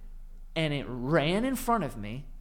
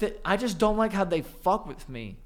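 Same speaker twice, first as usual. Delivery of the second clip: whiny near-crying; 5 semitones higher than usual. Real, not acted. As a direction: whine it like about to cry. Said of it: "You are".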